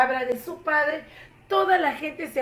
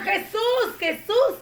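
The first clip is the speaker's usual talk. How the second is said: high, loud cheering shout; cheering call; 9 semitones higher, 5 dB louder, slower than usual. Acted. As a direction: call out like a fan. Waving pompom, still calling.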